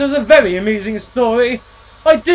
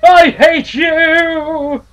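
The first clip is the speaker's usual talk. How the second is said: much louder and higher, slowing into I hate you; furious outburst; 8 semitones higher, 10 dB louder, slower than usual. Acted. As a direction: scream your hurt at him. Eustace's furious outburst at brother.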